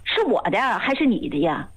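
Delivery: mildly indignant retold scolding, questions rising in pitch; retold annoyance. Assistant silently scolding a patient who won't follow advice, mildly annoyed. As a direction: replay an irritated telling-off, without raising the volume. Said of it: "挺生气的".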